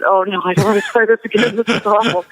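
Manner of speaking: mild whine of protest; retold whining. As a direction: whine a little, as if retelling your own complaint. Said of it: "whining to him".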